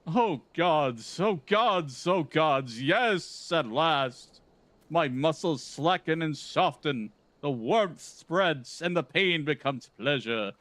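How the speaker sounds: pompous gentleman hero, brisk and theatrical; Hildebrand. Acted. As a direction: read it like a vain, grandiose gentleman. Voicing Hildebrand's quest lines.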